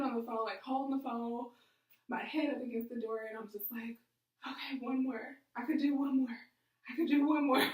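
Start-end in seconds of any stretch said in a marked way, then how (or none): 4.5-7.7 retold self-pep talk, building louder; psyching oneself up. Head against the door on the phone, retold rallying.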